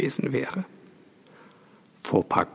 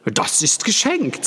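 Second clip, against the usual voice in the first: 1 lady's voice; 10 semitones higher than usual. A narrator's reading. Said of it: "sagte die Dame".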